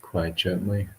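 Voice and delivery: measured meditation guidance with long pauses; guided meditation. Acted. Monk leading livestream listeners and yogis in relaxation, guided meditation. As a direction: guide listeners unhurriedly, leaving long silences between phrases.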